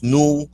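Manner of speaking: nuclear broken into NOO, KYOO, LAR; three separated syllables in nuclear with a "kyoo"; mispronounced nuclear. Shown as a demonstration. Host showing the extra U, NOO-KYOO-LAR for nuclear. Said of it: "there is no extra U".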